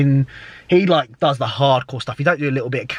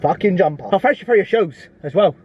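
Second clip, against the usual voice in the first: drill rapper persona; 3 semitones higher than usual. Acted. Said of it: "Don't know why I did that".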